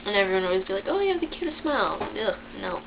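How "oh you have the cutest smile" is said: mocking gushing voice. Mimicking people complimenting her smile.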